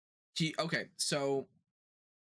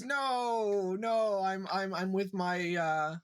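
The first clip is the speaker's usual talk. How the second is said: backtracking; 3 semitones higher, much slower than usual. Retold or imitated. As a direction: imitate someone scrambling to backtrack. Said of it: "she's trying to backtrack".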